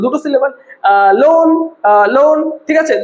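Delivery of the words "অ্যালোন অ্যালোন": অ্যালোন with a light অ্যা and a long, stressed লোন. Shown as a demonstration. Teacher counting two syllables for students, stress on লোন in অ্যালোন. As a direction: sound out অ্যালোন, leaning on লোন. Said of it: "অ্যালোনটার মধ্যে আমরা বেশি জোর দিচ্ছি".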